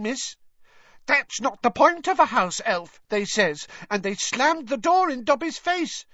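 earnest, high-pitched squeaky house elf; Dobby. A narrator's reading. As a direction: plead the case in a very high elf voice. Dobby's speech in story.

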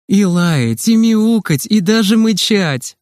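high, playful listing, stretched at the end; cheerful. A narrator's reading. Nurse lists what crows can do, cheerful. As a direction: build merrily to the last item. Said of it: "весело проговорила медсестра".

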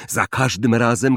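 ordinary delivery

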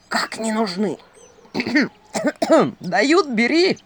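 splutter, cough, then urge it loudly; scandalised owl outburst; indignant owl. A narrator's reading. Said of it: "Филина чуть удар не хватил от негодования".

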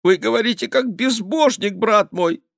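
very high, strained accusation; pious, panicky king; scandalised reproach. A narrator's reading. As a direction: accuse him in a horrified high voice.

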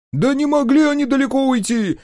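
high, loud wail of protest; wailing shout. A narrator's reading. Guard wailing at the chief, high and loud. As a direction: howl it out in desperation. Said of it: "взвыл докука".

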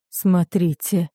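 slow, husky mumble; slow, stunned, croaky murmur; hoarse mutter. Acted. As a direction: mumble it, voice gone from shock. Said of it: "внезапно осипшим голосом пробормотал он".

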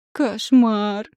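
loud, howled cry of horror; wailing. A narrator's reading. Husband in pregnant body wails about the cramped baby. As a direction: howl it out in alarm. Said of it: "взвыл муж".

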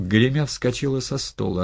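ordinary delivery

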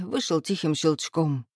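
ordinary delivery, nothing marked

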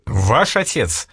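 slow, stern question. A narrator's reading. Prince questions the clerk, stern and slow. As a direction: ask it sternly, slowly. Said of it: "строго спросил Мышецкий".

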